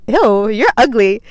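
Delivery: slow, drawn-out mock disgust; TikTok ew. Quoting a TikTok to her listeners, drawn-out mock disgust. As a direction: sneer it like the TikTok sound. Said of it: "You know that TikTok where it's like".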